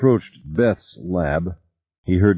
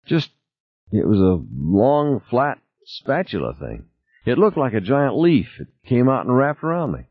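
lightly voiced injured crewmember, halting start, then higher; Tina describing the creature; 7 semitones higher than usual. Tina describing the creature to Norman, lightly higher voice.

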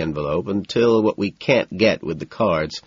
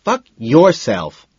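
loud slow mocking echo; mimicking; 5 semitones higher, 6 dB louder, slower than usual. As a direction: mimic the roar back. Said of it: "the voice mimics".

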